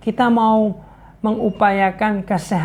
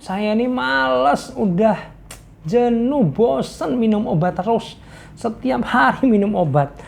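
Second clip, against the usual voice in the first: whiny patient; 3 semitones higher than usual. Retold or imitated. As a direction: plead like a fed-up patient. Patient complaining to healer. (pasien mengeluh dengan nada merengek)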